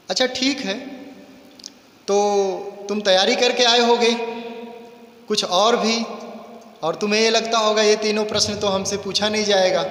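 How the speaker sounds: lightly voiced mocking king; scheming king. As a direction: gloat over the boy like a crafty king. King taunts the returning boy.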